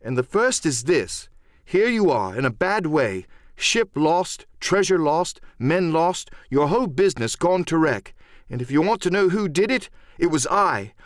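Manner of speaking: high-pitched, impassioned tirade; worked-up lad's proud confession, rising pitch; excited defiance. Acted. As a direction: throw it all boldly in their faces. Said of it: "by this time I was quite excited".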